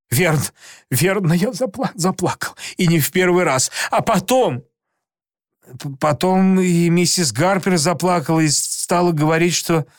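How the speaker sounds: usual speaking voice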